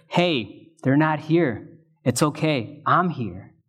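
gently reassuring, easing down at the end. Retold or imitated. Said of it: "Almost to reassure her".

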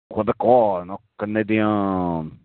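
lightly mocking French accent; a slow touch of mock French. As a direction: say it as French, stretching "Canadian". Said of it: "does he speak with a French accent".

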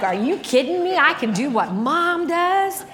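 put-on a little girl thrilled to copy her mom; excited child. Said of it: "I was like".

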